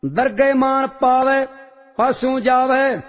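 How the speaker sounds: steady, measured recitation of a sacred hymn; devotional scripture recitation. Real, not acted. Reciter chanting Vadhans hymn to the congregation, reverent and measured. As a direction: intone each line with reverent calm.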